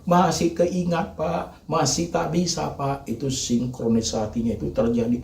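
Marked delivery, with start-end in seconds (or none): 0.0-3.1 raised, whiny mock complaint; mimicking a complainer. Preacher mocking a congregant who keeps complaining. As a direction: imitate the grieving congregant pleading. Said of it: "Asal ngomongnya".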